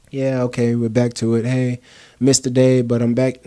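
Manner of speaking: low-pitched, casual imitation of a quitter; half-hearted slacker. Someone excusing a missed day, half-hearted.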